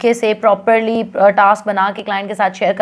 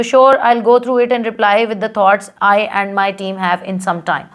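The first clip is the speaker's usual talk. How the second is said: slow sample reply; 2 semitones lower, much slower than usual. Shown as a demonstration. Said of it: "आप कह दो".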